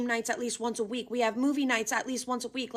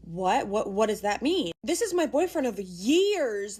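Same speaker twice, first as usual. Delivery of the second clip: loud, stunned disbelief; shocked; 4 dB louder, slower than usual. Real, not acted. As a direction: react in shock. Shocked reaction to email.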